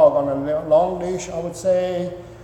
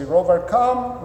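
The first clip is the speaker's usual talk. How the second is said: calling the dog; 3 semitones higher, slower than usual. Shown as a demonstration. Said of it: "and you say".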